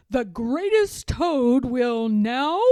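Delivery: announcer voice. Acted. The voice announcing again.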